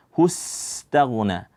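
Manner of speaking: "hustaghna" with a sustained s straight into t; clean sin. Shown as a demonstration. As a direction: hiss the s of "hustaghna" with no vowel after it. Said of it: "cukup dibaca".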